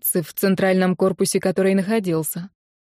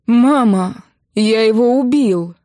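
forced out in panic; 3 semitones higher, 5 dB louder, slower than usual. A narrator's reading. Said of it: "выдавил Кирилл".

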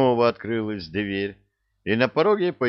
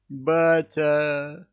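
howling; 7 semitones higher, 3 dB louder than usual. Acted. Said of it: "завыл Сопляков-младший".

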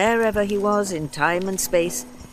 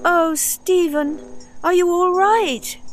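put-on much higher, louder anxious young girl; worried girl; 7 dB louder, slower than usual. A narrator's reading. Vicky embracing Stephen, high and anxious. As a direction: rush in breathless with worry.

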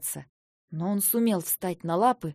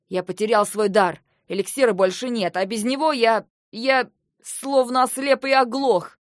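raised voice, building to a cry; anguished outburst; 6 dB louder than usual. Acted. Brother cries out his loss. (с отчаянием, повышая голос)

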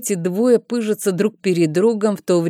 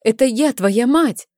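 mother calling out; 7 semitones higher than usual. A narrator's reading. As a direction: call out across the stones, hoping he hears. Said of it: "позвала она".

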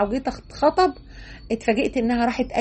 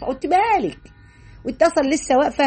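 indignant retort; 4 semitones higher than usual. Retold or imitated. Scolding imagined questioner.

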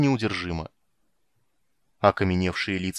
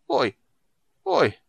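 groan; 10 semitones higher than usual. A narrator's reading. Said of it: "тяжело застонал".

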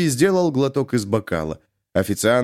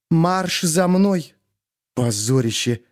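hissed order; 5 semitones higher, slower than usual. A narrator's reading. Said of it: "прошипела Витвицкому".

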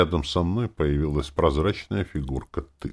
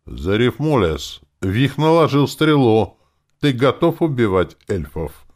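louder, higher, threatening question; menacing; 8 semitones higher, 8 dB louder than usual. A narrator's reading. Wizard questions the ghost sternly, louder and threatening. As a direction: warn the ghost with weight. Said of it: "грозно спросил кудесник".

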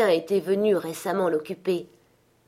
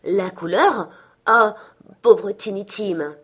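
sorrowful cry; 3 semitones higher, 6 dB louder, slower than usual. A narrator's reading. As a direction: let the grief break through on Tiny Tim. Sorrowful exclamation.

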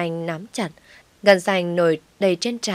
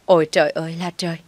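fast, louder wail of "Ôi trời ơi là trời"; faster than usual. Acted. Mother-in-law wailing even louder at her son. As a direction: outdo her earlier cry of "Ôi trời ơi là trời". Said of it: "Bà Tâm lại gào to hơn".

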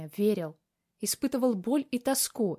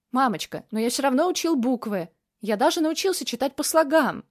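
put-on proud child; 5 semitones higher, 5 dB louder than usual. Child voiced in story.

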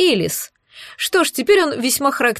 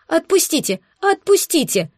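higher, hammed-up tearful begging; tearful pleading; 6 semitones higher than usual. A narrator's reading. Alice keeps tearfully begging the bandits, higher. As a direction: beg to be let go, overacted. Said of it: "слёзно продолжала молить Элис".

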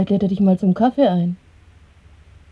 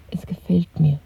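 whisper. Acted. Julia answering Winston about the bed, intimate whisper. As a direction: breathe it close. Lovers alone in hidden room.

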